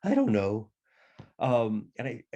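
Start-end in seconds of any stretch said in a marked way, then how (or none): 0.0-0.7 lightly imitated adolescent croak; hint at a son's odd, changing voice; mimicked boy with voice going; boy's breaking voice. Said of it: "What's wrong with your voice?".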